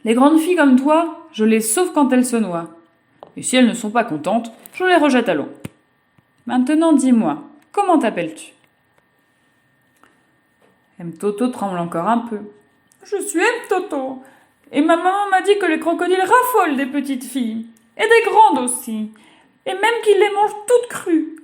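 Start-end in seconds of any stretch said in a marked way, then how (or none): 0.0-8.5 lightly voiced teasing crocodile, a bit louder; a friendly creature joking. Crocodile answering the girl, lightly voiced and teasing. 13.0-21.4 put-on high, timid little girl's voice; a still-scared child telling what mother said. Trembling girl telling the crocodile, high childish.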